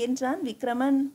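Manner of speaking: usual speaking voice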